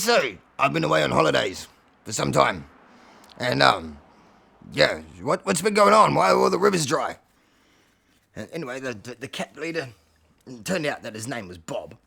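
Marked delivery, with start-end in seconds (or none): 0.0-7.2 loud, questioning cat character; Alfie. Acted. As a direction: press for answers, loud and halting. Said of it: "Alfie says".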